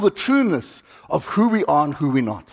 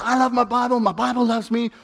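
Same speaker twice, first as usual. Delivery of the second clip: heartfelt; 4 semitones higher, 3 dB quieter than usual. Shown as a demonstration. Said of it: "can really do that with all your heart".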